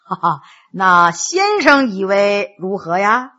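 low voice after a small chuckle; smiling question. Acted. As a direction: ask the adviser with an amused smile. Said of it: "面带微笑".

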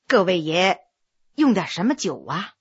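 a soft, timid question to the guests; soft-spoken young man. A narrator's reading. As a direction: say it softly, almost to himself. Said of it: "小声说了一句". (小声怯怯地问)

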